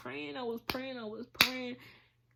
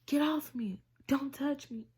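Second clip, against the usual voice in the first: louder and higher, reliving the shout; retold yelling; 4 semitones higher, 4 dB louder than usual. Survivor reliving a flashback of yelling at her cousin, raised voice. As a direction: cry out to push him away. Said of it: "I'm yelling".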